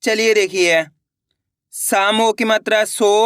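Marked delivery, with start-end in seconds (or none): 1.7-3.1 slow spelling. Shown as a demonstration. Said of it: "अपन एक एक करके शब्दों को पढ़ेंगे".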